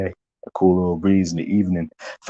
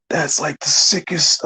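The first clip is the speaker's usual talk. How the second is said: excited; 7 semitones higher, slower than usual. Retold or imitated. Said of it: "And then I said".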